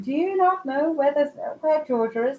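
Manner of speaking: lightly scandalised question; mock incredulous. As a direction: quote her ribbing you, pitch lifted in disbelief. Teasing retort quoted from the spirit.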